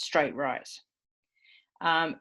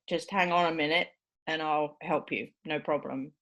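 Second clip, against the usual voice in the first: helpful reassurance. Shown as a demonstration. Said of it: "accommodating, sort of helpful stance".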